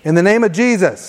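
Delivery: mild, firm command in prayer; like you mean it. Shown as a demonstration. Preacher leads church against anxiety, like she means it. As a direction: say it with conviction, like a declaration. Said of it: "say it like you mean it".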